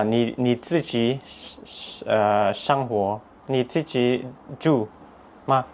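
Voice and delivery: halting Mandarin with a foreign accent; slow, searching learner's Mandarin; foreigner speaking Mandarin. Real, not acted. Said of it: "什么意思？ 没听懂。".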